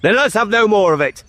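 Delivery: high, quick reprimand; stern dismissal. Acted. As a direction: close the matter sternly. King ends the scolding.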